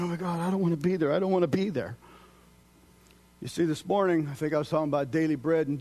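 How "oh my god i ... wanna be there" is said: alarmed thought. Retold or imitated. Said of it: "I'm thinking".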